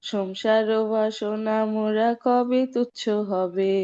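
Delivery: fast recited Bengali verse; Bengali verse recitation. Pretend. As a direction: rattle off the Bengali verse quickly. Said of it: "Try it in your Bengali accent".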